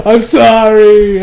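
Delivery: drawn-out fake sobbing apology; mock crying. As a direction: blubber it slowly, half laughing. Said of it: "then he starts crying".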